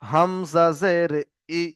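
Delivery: slow spelling, ending on a short "ই"; name "Hamza জের", then a brief "ই"; short i vowel. Shown as a demonstration. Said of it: "জেরের আওয়াজ হর্ষিয়ের মতো". (হ্রস্ব "ই" উচ্চারণ)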